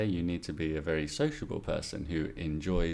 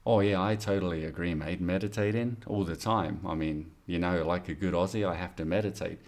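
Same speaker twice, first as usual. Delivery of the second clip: put-on Australian accent. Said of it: "I'm doing it with an Australian person".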